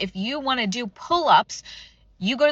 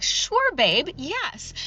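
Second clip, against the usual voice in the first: fake eager agreement; 5 semitones higher, much slower than usual. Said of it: "I've been like".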